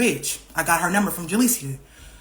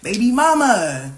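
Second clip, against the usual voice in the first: mock ex greeting; 2 semitones higher, 4 dB louder, slower than usual. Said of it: "was like".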